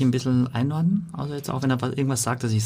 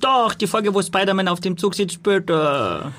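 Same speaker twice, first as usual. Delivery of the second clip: put-on high eager little boy; child voice; 8 semitones higher, slower than usual. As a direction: pitch way up like a kid. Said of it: "Du bist der Sohn".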